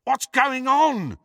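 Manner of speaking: high, slow, drawn-out shout. A narrator's reading. Ron shouts from beyond the junk wall, loudly. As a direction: holler an anxious question from afar. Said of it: "shouted Ron again".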